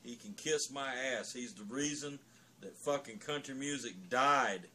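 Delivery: loud, cursing tirade; angry rant. Real, not acted. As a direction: let the contempt pour out. A swearing rant against a country singer.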